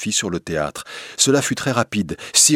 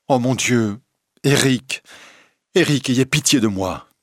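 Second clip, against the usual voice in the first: mildly acted alarmed cry, pitched higher; 4 semitones higher, 3 dB louder than usual. A narrator's reading. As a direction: plead for mercy with a raised voice. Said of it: "devint très pâle et s'écria". (cri d'effroi un peu retenu)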